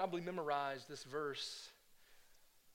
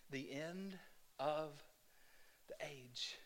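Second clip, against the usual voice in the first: whisper; 7 dB quieter, slower than usual. Acted. Whispered ending.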